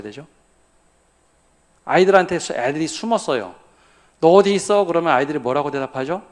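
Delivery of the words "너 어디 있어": put-on loud, higher call to a hidden child. Parent searching for hiding children, calling out. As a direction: call out for the kid playfully.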